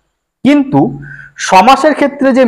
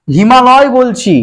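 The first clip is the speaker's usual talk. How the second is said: slow spelling-out; 4 semitones higher, slower than usual. Shown as a demonstration. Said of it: "এই যে আ বিভক্তিটা যখন হিমা".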